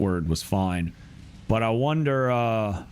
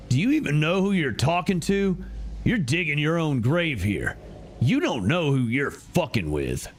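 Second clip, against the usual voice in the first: higher, tense angry demand; tense villain; 4 semitones higher than usual. Acted. Gang member demands who is listening, tense and angry. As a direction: press the intruder hard.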